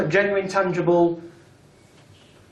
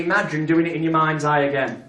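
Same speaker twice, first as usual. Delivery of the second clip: demo hypnotist line. Shown as a demonstration. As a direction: coax the subject gently. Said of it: "And you say".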